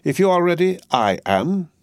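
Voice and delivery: bustling, bossy housekeeper; Miss Pross voice. A narrator's reading. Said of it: "said Miss Pross".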